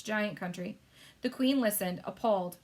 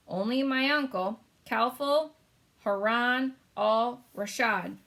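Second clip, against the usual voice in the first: high, louder sultan voice; the Sultan, lamenting; 3 semitones higher, 5 dB louder, slower than usual. Acted. Sultan naming his missing uncle, high and slow. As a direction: draw out the name slowly.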